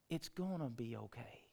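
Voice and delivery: whispered, breathy reassurance; mock soothing whisper. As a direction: hush them like a comforter. Someone's soothing line imitated.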